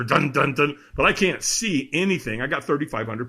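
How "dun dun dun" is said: drums sounded out as punchy syllables; imitated drumbeat. Describing the firewalk drums to the host, imitated drumbeat. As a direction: tap out the drum rhythm with the voice. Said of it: "and the drums are".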